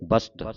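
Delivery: "ਬਸਤ" as bast, s and t joined; crisp st cluster ending "ਬਸਤ"; sounded sassa. Shown as a demonstration. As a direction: say "ਬਸਤ" in one syllable with a clear s. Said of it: "ਇਸ ਤਰ੍ਹਾਂ ਪੜ੍ਹਨਾ".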